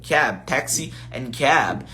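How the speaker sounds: Cab, taxi and cab said slowly in English; slow English words. Shown as a demonstration. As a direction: spell out Cab, taxi and cab carefully. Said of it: "Em outros lugares a gente usa o cab". (palavras em inglês ditas devagar)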